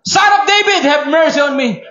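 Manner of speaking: high pleading shout. Acted. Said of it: "but she shouted all the more". (mas malakas na sigaw ng pagmamakaawa)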